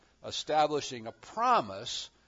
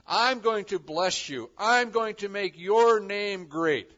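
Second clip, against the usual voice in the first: God's promise; 5 semitones higher, 9 dB louder than usual. Acted. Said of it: "God acts to assure Abraham".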